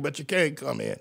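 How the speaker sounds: the preacher closing the door on sinners, softly; soft answering line. Acted. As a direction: let it fall away quietly. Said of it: "chanted refrain".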